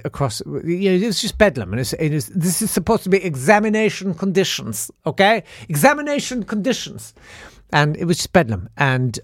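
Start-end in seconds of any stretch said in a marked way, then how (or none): 2.3-7.1 high-pitched, fussy imitation of a teacher; retold scolding in a raised pitch; mock scolding teacher. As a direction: protest like an overwhelmed exam invigilator. Teacher scolding an unruly exam room.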